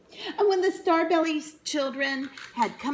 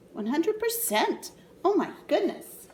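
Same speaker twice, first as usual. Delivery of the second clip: mock amazement; 7 semitones higher than usual. A narrator's reading.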